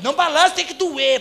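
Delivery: retold pastor order.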